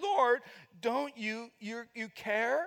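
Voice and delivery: slow, whiny, self-pitying tone. Retelling Martha's complaint to Jesus: Martha's mock self-pitying whine. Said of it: "You can hear it".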